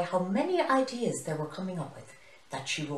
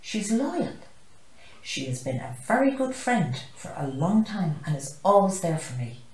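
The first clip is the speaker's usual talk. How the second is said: proud; 3 semitones higher, 6 dB louder than usual. Acted. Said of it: "Zane the zebra proudly shared".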